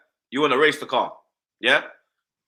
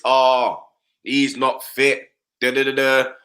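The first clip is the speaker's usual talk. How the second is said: mocking excuse-makers; 5 semitones lower, slower than usual. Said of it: "I'm not hearing this".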